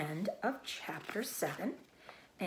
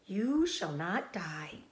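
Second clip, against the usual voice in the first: slow, firm reassurance; brisk; slower than usual. Acted. Charlotte reassuring Wilbur firmly. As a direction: promise it steadily. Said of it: "said Charlotte briskly".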